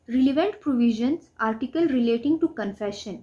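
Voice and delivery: slow, measured reading of a legal definition; slow dictation. Shown as a demonstration. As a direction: read it out word by word, like dictating to the class. Reads provisions list aloud.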